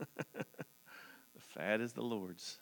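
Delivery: slow, laughing repeat of the verse. Real, not acted. Preacher laughing at his favorite verse, slowly. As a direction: chuckle through it, drawn out.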